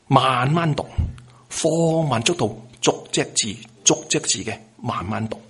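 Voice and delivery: deliberate, drawn-out demonstration of slow reading; slow, word by word. Shown as a demonstration. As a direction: spell out the pace one character at a time. (慢慢咁逐隻字示範)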